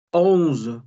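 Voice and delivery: Onze said as French onz, final E silent, buzzing z. Shown as a demonstration. Teacher models French numbers: Onze with a buzzing z. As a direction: Onze with a held buzzing z at the end. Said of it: "La E al final no suena y nos quedamos con el zumbido".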